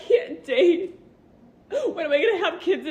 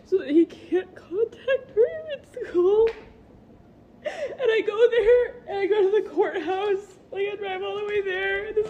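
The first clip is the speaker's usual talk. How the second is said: pushing through tears; crying while talking; 4 semitones higher than usual. Real, not acted. Mother describes getting the protective order, teary. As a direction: voice wavering with tearful laughs. Tearful retelling at the courthouse.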